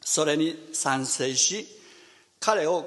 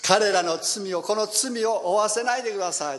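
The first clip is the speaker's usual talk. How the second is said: 1 loud prayer; 5 semitones higher, 3 dB louder than usual. Shown as a demonstration. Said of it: "大声で彼は叫んだんです。".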